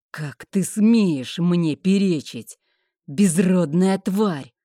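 enraged husband. Acted. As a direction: hammer each word out in rage. Husband beats wife in fury.

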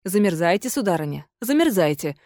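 host coldly refuses the ghost; cold reply. Acted. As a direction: answer coldly, unmoved. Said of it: "холодно ответил".

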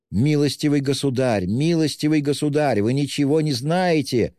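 high, desperate shout. A narrator's reading. Widow shouts at the official, desperate and high. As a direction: cry out at him, desperate. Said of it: "кричала Катерина Ивановна".

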